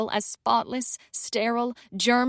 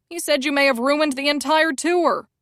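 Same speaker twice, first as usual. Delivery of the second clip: alarmed accusation; 5 semitones higher, 4 dB louder than usual. Acted. Publicist's accusation.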